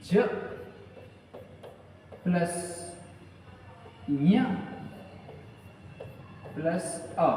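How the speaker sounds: ज, ञ and अ said one by one with long pauses; sounding out letters. Shown as a demonstration. Teacher spells ज्ञ out for students, slow sounding out. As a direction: build ज्ञ from ज plus ञ plus अ, one sound at a time. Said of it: "ये ज का".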